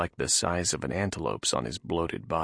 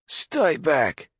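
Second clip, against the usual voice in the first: higher, louder guard bark; gruff guard; 10 semitones higher, 6 dB louder than usual. Acted. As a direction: bark the order. Guard orders Nath.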